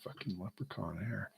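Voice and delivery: hushed mock whisper of the airline; barely voiced, sneering aside; whispered quote. Comedian whispering the leprechauns' boast.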